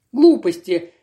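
sharp retort. Acted. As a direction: cut him off sharply. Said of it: "резко произнесла мисс Кэрли".

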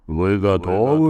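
loud rising call to the crowd; shouting commentator. Acted. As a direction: pump up the racers with a big shout. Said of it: "закричал комментатор".

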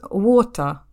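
British WATER with no R at the end; British pronunciation. Shown as a demonstration. Showing co-host how water sounds in British, British accent. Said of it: "на британском вода это будет".

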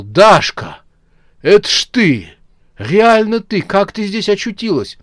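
overjoyed at finding her; joyful surprise. A narrator's reading. Raketa recognising Dasha, overjoyed. (радостное изумление)

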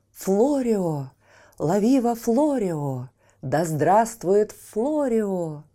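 loud cheering, ringing out; crowd cheering. Acted. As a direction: hail the hero with joy. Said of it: "дружно закричали".

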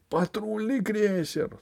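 high, slow panicked howl; panicked wail. A narrator's reading. Usurper fleeing the patrol cruiser, panicked wail. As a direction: wail it in terror. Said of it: "завопил узурпатор".

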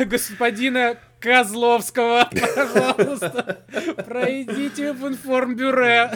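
station announcer. Pretend. Mock lost documents announcement.

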